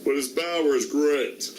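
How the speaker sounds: plain. Acted. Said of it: "The one impression I can still do".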